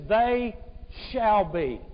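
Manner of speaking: "They" lifted and held, then a pause; stress on They. Shown as a demonstration. Preacher quoting the promise of comfort, emphatic "They". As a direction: lean hard on "They", pause before "shall be". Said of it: "is emphatic".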